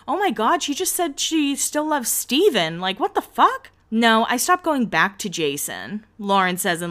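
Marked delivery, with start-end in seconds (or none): 0.1-3.7 high, stunned disbelief; retelling her own shocked reaction to a reveal. Retold or imitated. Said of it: "But still, I was like". 3.9-6.0 slow, lightly snippy comeback; a touch of snark, drawn out; mild imitation of a snarky roommate; little snarky voice. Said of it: "a little snarky voice".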